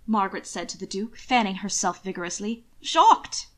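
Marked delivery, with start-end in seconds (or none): 2.8-3.5 high, loud shocked exclamation; scandalized cry. A narrator's reading. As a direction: gasp it out, scandalized. Margaret exclaiming.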